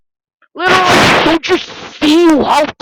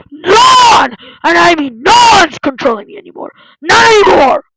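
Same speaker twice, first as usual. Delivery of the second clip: defiant shout. Acted. Defiant rebellion against the boss.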